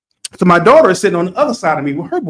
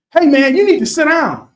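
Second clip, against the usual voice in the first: a high, louder mock shout of a rude kid; retold yell; 10 semitones higher, 5 dB louder than usual. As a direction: call it across the bleachers. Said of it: "screams over at us".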